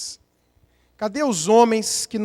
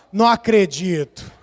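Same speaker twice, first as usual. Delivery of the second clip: mock interest; 5 semitones lower than usual. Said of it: "você fala".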